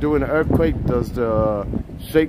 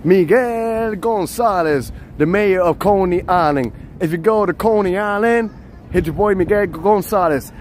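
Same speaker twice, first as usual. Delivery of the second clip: announcer hype; 3 semitones higher than usual. Acted. Plugging the mayor of Coney Island, announcer hype. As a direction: hype him up like a local promo. Mock promo for Miguel Gonzalez.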